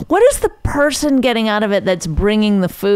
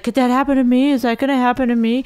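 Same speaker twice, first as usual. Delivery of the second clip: higher-pitched anxious questions, lightly mocked; mock worried, pitched up; imitated worry; 5 semitones higher, faster than usual. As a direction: imitate someone fretting it could be them. Mimics Raina's anxious questions.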